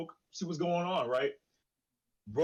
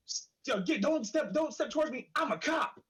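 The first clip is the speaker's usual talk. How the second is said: high, panicky neighbour backing off; 10 semitones higher than usual. Retold or imitated. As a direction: squeak it out like a scared man claiming to be a cop. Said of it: "Brother man goes like".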